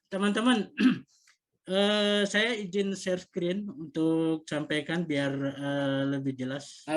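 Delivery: muffled behind a face mask; talking through a mask. Real, not acted. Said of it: "izin ya pakai masker".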